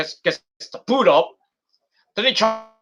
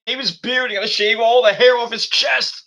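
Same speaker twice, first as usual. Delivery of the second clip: mock horrified protest; 5 semitones higher than usual. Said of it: "I was like".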